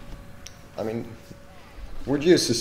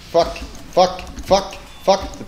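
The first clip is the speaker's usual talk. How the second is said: shouting; 11 semitones higher, 10 dB louder, much slower than usual. Real, not acted. Getting killed in game.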